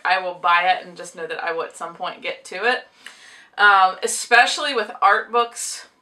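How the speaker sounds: talking while chewing gum. Real, not acted. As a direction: speak around a wad of gum. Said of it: "Sorry, I've gum in my mouth".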